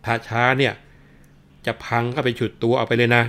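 a constable hollering threats to break the door down; mock officer yelling at the locked house; policeman shouting. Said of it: "ก็ร้องตะโกนบอกว่า".

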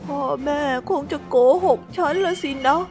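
high, sorrowful self-talk with a sigh; high, heartbroken little voice; sad monologue. Acted. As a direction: speak to yourself, heartbroken. Hippo's sad lonely monologue.

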